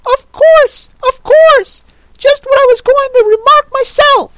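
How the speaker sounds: a tiny creature blurting in its sleep; sleepy squirrel. Acted. Squirrel mumbles to the Hatter without waking, squeaky. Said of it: "The squirrel ... said, without opening its eyes".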